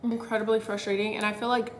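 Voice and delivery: soft, hushed complaining in a quiet room; quietly irritated. Real, not acted. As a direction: vent it under your breath. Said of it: "I'm actually so irritated".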